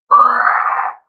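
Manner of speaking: loud airless screeching cry; pterodactyl screech. Pretend. Ranting about money, he breaks into a loud pterodactyl screech. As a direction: let out a mock prehistoric bird shriek. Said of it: "It's my pterodactyl impression".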